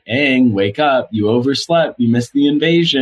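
lightly acted taunt from a villain; imitated taunting. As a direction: tease a sleeper, drawing out the wake-up call. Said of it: "taunting him".

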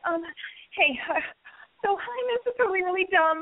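high-pitched, hammed-up nervous opener; hesitant, awkward ask. Shown as a demonstration. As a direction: imitate someone fumbling an apologetic invitation. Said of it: "and don't ask them, like".

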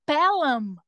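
Pelham com M final de boca fechada; Pelham fechando o M. Retold or imitated. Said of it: "fechou o M". (chefe corrige: Pelham, fechando o M)

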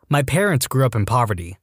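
ordinary delivery, nothing marked

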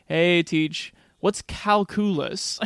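lightly voiced joking student; jokey student. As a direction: drag out the question for a joke. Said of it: "It's just played for a joke".

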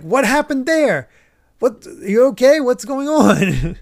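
high, slow, startled cries of confusion; alarmed bystanders. Acted. Onlookers reacting to the shot horse, alarmed and high. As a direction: gasp it out like a panicked crowd.

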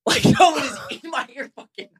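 high-pitched giggling while telling it; can't stop laughing mid-sentence; words breaking into high laughter; laughing through words. Real, not acted. Laughing while telling ant story.

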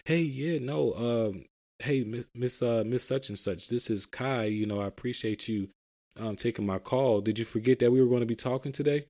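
easygoing, unhurried phone greeting; match a slow customer, relaxed and friendly; laid-back caller settling into the call; mirroring slow caller. Shown as a demonstration. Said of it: "I'm talking back slow to you".

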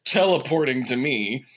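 high laughing, slow. Real, not acted. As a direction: laugh through the words. Laughing through exhaustion.

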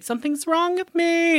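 high-pitched imitation of panic; mock freaking out. Wife waking in hospital after the crash, mock panic. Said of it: "then she freaks out".

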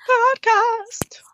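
breathy whispered echo. Pretend. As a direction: whisper the word like a secret. Whispered echo of the show name.

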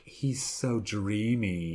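slow dreamy swoon; drawn-out lovestruck sigh. Retold or imitated. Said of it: "the women would be like".

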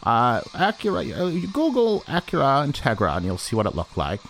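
storyteller in a hammy Danish voice; Danish accent. Acted. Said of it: "great singer impression".

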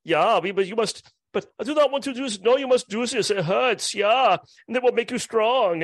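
mock German brewer. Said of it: "Can you imagine double decocting in Germany?".

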